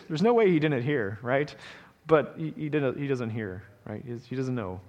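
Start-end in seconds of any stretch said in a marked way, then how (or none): none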